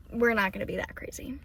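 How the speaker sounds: quick whispered aside. Real, not acted. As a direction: whisper it to yourself.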